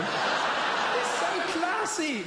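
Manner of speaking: very high, very slow, squeaky mock classy voice; high drawn-out mock elegance; mock posh squeal.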